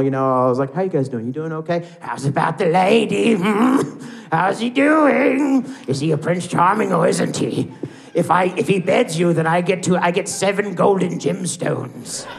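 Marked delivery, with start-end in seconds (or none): 2.0-12.3 put-on overdone British accent. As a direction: keep milking a silly British accent. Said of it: "you can't stop doing it".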